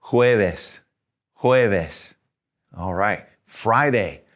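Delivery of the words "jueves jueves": "Jueves" with the J breathed like an H. Shown as a demonstration. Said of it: "we're gonna breathe it a little bit".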